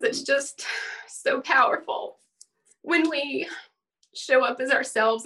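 teary-eyed. Real, not acted. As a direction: speak through welling tears. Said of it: "It makes me teary-eyed".

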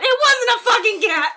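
loud, high, laughing protest; indignant outburst. Real, not acted. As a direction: snap back, half laughing.

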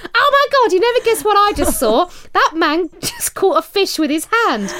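high-pitched, breathless-to-tell excitement; excited exclamation, pitched well up; excited retold shout. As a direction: act out a friend bursting with news. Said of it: "shot out of the water and shouted".

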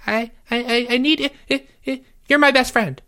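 high, stammering whimper; squeaky, near-tears plea; tearful begging. A narrator's reading. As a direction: beg desperately, tripping over words. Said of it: "Jeffrey's eyes began to water".

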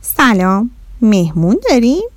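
a touch of puzzled surprise; mildly surprised mother. Acted. Mother startled by the alien guest, mildly surprised. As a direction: greet them, taken aback. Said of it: "با تعجب گفت".

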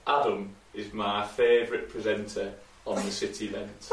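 put-on slow, careful Yorkshire accent read. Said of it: "give us your best Yorkshire accent".

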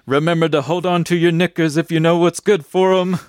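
hint of a driver's parting warning; cab driver. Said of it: "the driver said".

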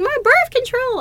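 high, loud mock shriek; retold yell. Imitating the partner yelling out mid-sex, comic shrill alarm. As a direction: cry it out as the alarmed partner, hammed up. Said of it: "she yells out".

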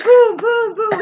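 high, loud booms; excited, punched-out shooting noises; mock gunfire. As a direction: shout out cartoon gunshots. Acts out wild shooting from car.

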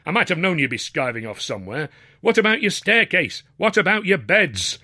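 high, exasperated questioning; indignant fatherly nagging; scolding father. A narrator's reading. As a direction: tick off a skiving son. Father scolds his skiving son.

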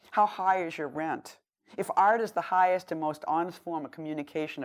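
measured, declarative poem recitation; poetry reading. Acted. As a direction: read it like a public address in verse. Recites own poem to audience.

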